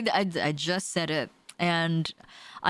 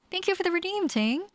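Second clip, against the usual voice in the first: excited thanks; 12 semitones higher than usual. Real, not acted. Thanking viewer for redeem.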